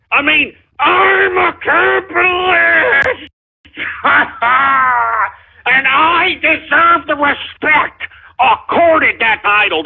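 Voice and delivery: slow, cracking half-sobbing yell; mock tearful outburst demanding respect; crying shout. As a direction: wail it out like a wounded ego. Host breaks down demanding respect.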